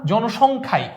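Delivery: emphatic জনসংখ্যাই, marking it as the one; stress on জনসংখ্যাই. Shown as a demonstration. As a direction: lean on জনসংখ্যাই to single it out. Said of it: "একটু জোর দিলাম না".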